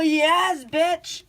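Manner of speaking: loud, high excited shout; triumphant yes. Real, not acted. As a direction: shout it in triumph at the right answer. Finds the correct answer.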